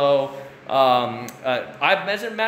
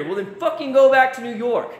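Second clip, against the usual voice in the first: 1 annoyed retort; 8 semitones higher, 4 dB louder than usual. Real, not acted. Angry retort at complainers.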